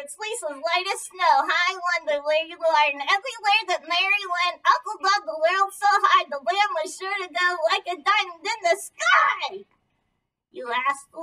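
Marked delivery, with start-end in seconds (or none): 0.0-9.6 squeaky ventriloquist dummy. Acted. Dummy mashes both poems together.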